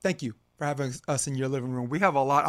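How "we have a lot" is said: tripping over the words; stumbling stutter on the start. Real, not acted. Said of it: "I'm stuttering".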